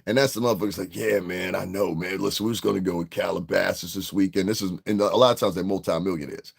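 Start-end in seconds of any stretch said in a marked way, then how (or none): 0.9-4.5 California hippie. Retold or imitated. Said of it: "the ever-discerning hippie".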